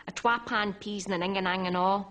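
broad Dundee accent, quick. Shown as a demonstration. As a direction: say it like a Dundee local. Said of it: "if I'd have got that in a Dundee accent".

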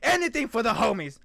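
ordinary talk, nothing marked

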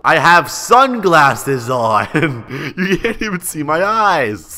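drawn-out, incredulous whine; exasperated protest. Pretend. Inmate protesting to the cop over his photo, exasperated. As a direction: stretch the words out in laughing disbelief.

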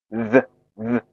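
"Z Z" as voiced th, tongue tip lightly bitten; tongue between teeth. Shown as a demonstration. Teacher shows learners the sound, "Z Z" voiced with tongue between teeth. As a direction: buzz "Z Z" against the tongue tip, each separately. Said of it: "要轻咬舌尖".

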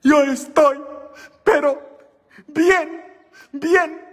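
put-on high, slow American-accented Spanish of the nun; the American nun in her broken Spanish, high and laughing; nun's American accent. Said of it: "la monja, y dice".

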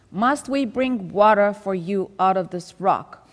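loud, slow scolding of the rebels; chiding rebuke. Retold or imitated. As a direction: scold them slowly and loudly. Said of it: "he's really chiding them".

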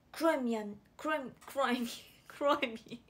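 黒い squashed together, imitating a quirky accent; exaggerated mimicked pronunciation of 黒い; odd pronunciation. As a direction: play with 黒い, repeating it in slurred cutesy articulation. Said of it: "発音がえぐい".

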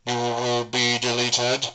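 slow, loud robotic Cyberman monotone; Cyberman threat. Shown as a demonstration. Hobbyist demoing the Cyberman voice to viewers, slow robotic threat. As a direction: intone it like a cold cyborg. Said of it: "you should be able to hear the Cyberman voice".

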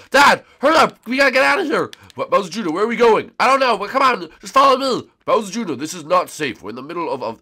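put-on high, loud excited kid. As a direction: squeal like a panicked little boy. Kid character voice.

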